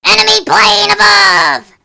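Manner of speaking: slow mock warning shout; alarm call. Kids playing air raid, calling the alarm.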